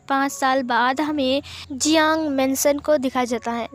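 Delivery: plain reading voice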